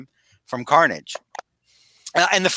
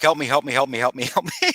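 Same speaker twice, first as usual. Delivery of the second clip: mock freaking out. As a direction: play a comic panicked cry for help. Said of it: "he is legitimately freaking out".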